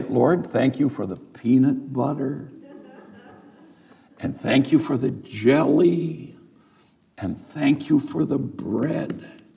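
each item set apart by long pauses; itemized child's prayer. Retold or imitated. Teacher shows children how to thank God for lunch, itemized and measured. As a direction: pray it item by item, drawing out the last. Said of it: "You have to say".

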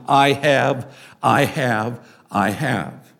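repeated "I have", stepping down in pitch; stress on I have. Shown as a demonstration. Pastor showing where Greek emphasis isn't, stressed "I have". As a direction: say "I have" three times, each one a separate beat. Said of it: "The emphasis in the Greek sentence is not in".

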